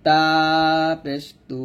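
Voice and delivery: long তা with a light t, then a thin তু; thin consonant. Shown as a demonstration. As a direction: keep the t of তা light. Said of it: "তা এবং দাল পাতলা হবে". (পাতলা করে টেনে তা পেশ তু)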